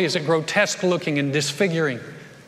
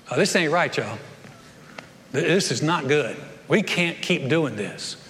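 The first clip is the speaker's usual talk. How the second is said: guilty and sober; 4 semitones lower, 3 dB quieter than usual. Retold or imitated. Lepers realizing they must tell the city, lower and subdued. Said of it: "look at one another and go".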